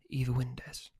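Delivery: breathy witch whisper, no voice; whispered spell. Acted. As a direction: hush it like a secret incantation.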